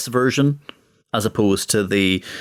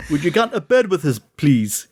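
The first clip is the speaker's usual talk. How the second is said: mock French accent; 6 semitones higher than usual. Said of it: "in, like, your accent".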